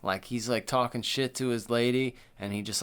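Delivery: ordinary delivery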